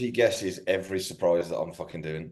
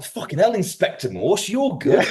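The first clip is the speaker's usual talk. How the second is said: sarcastic praise; 10 semitones higher than usual. Retold or imitated.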